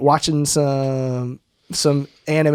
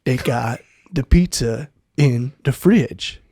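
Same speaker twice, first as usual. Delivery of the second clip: put-on frustrated Cajun accent; slower than usual.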